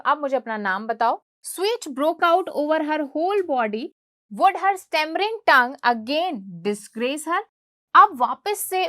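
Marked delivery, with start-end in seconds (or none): 1.5-7.4 slow, deliberate read-aloud of the English text; slow textbook reading. A narrator's reading. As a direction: read each word out slowly for the class.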